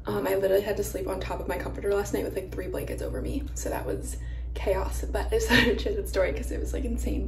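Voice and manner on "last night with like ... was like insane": whispering. Real, not acted. Late-night talk, whispered.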